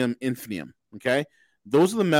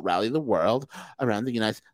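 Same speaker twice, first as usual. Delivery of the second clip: lightly voiced Valley girl, softer; 5 semitones lower, 4 dB quieter than usual. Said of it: "He actually talks like a Valley girl".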